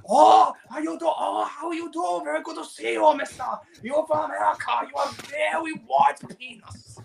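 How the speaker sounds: hammed-up high Asian accent; caricatured Asian accent. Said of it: "casual racism from, um, South Park".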